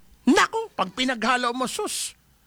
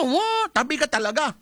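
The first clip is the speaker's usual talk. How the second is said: mock yell; 6 semitones higher than usual. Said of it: "pagka nagwangwang yan".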